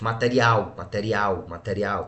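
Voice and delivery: "material" with the stress on final "al"; sílaba mais forte. Shown as a demonstration. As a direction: repeat "material", leaning on the last syllable. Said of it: "a sílaba mais forte". ("material" com força no "al" final)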